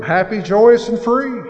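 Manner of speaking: bright, loud, high sing-song; proudly chirped catchphrase; mock cheerful. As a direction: beam it out like the perfect answer. Proud answer to sponsor.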